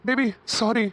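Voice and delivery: stammering, flustered apology; tense. Acted. Boyfriend apologising to his girlfriend, tense. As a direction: stumble in as if caught off guard. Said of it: "ஏன் இவ்வளவு டென்ஷனாவே இருக்க?".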